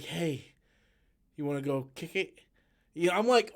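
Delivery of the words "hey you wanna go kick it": mocking the actress. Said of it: "I hate the way the actress does it".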